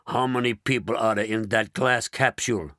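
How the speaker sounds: rasping. Acted. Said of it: "rasped the President".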